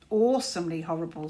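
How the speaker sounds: mildly grave and ominous. Acted. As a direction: say it like a dark warning. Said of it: "said Caliburn gravely".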